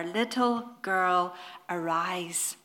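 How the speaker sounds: slow, gently spoken call to wake; a touch of tender calling, slowed down; soft and tender. Retold or imitated. Preacher voicing Jesus waking the girl, softly and tenderly. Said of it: "He spoke softly and tenderly".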